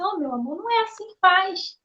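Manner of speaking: a soft, tender little correction; gentle and patient. Retold or imitated. Husband patiently correcting his wife, softly tender. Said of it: "ele tem aquela leveza".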